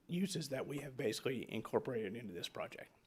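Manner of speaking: hoarse, fading voice that is giving out; raspy, strained voice running out; losing voice. Real, not acted. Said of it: "I'm losing my voice here".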